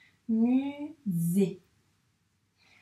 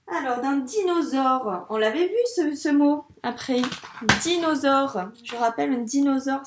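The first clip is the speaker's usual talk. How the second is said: excited; 2 semitones higher, 6 dB louder than usual. Acted. Excited about dinosaurs for child.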